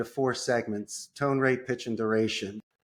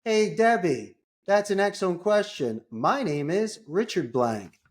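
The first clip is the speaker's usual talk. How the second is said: higher, eager reply; buffer technique; 6 semitones higher than usual. Shown as a demonstration. Caller buffering the assistant's question cheerfully. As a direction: reassure her with bright energy. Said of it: "You buffer".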